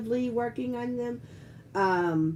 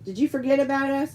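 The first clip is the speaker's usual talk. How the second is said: lonely kits; 4 semitones higher, faster than usual. Retold or imitated. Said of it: "all sitting there going".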